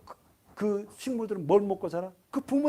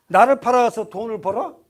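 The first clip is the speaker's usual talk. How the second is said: louder, indignant challenge to the husband; mock angry wife; 2 semitones higher, 8 dB louder than usual. Sarah confronting the husband who sold her, mock indignant. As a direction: scold him as a wronged wife. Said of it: "사라 입장에서".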